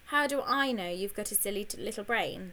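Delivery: cheeky teasing retort; cheekily. Acted. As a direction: needle him with a grin. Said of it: "said Annie cheekily".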